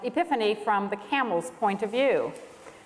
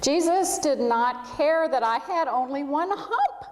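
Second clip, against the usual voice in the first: happy laugh running through the words; 6 semitones higher, slower than usual. Acted. Bumpty telling his camel friends, laughing with joy. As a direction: laugh it out with relief. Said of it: "laughed Bumpty".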